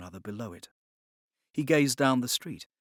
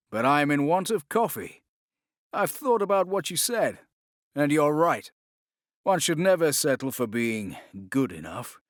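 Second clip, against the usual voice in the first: louder, firm declaration; louder, earnest promise; earnest resolve; 2 semitones higher, 4 dB louder than usual. Acted. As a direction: convince the mentor he's changed. Duncan's resolve.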